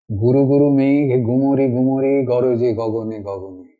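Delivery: slow, rolling the গ sounds like thunder; rumbling recitation. Shown as a demonstration. Teacher recites Tagore to show sound imagery, rumbling. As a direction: let গুরু গুরু rumble like distant thunder. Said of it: "অনেকগুলো শব্দ একসঙ্গে উচ্চারণ করলে".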